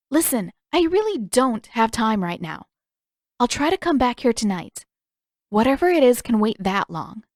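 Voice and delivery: Katara impatient. Acted. Katara telling Zuko it can wait, lightly voiced and impatient. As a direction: put him off firmly but kindly.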